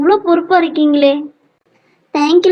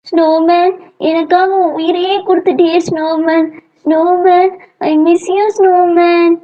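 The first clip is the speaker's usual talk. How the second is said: mournful lament. Acted. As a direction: lament a lost friend. Grieving for the melted snowman.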